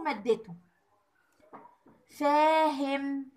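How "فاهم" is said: فاهم with the ا in فا held very long; stretched long a. Shown as a demonstration. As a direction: drag out the alif in فاهم to show the madd. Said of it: "مد بالألف،". (مد الألف في فاهم بوضوح)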